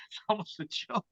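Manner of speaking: breathy laugh through the words. Real, not acted. Storyteller breaking off the judge's tale, laughing. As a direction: break up while saying it.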